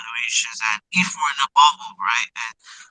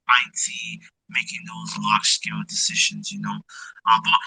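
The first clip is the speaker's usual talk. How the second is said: muffled audio, like through a tube. Real, not acted. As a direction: voice sounding down a tube. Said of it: "it's like you're talking through a tube".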